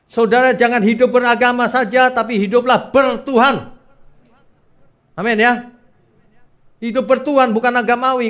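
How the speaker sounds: loud, high-pitched exhortation; full-force preaching. Acted. Preacher urges congregation to live for God, full-force preaching. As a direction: drive it home from the pulpit at full force.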